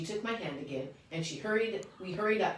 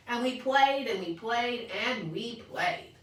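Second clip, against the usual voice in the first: starts high and loud, fades down and slower; fading repetition; 6 semitones higher, 3 dB louder, slower than usual. A narrator's reading. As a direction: let the play fade away. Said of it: "repetition fading out".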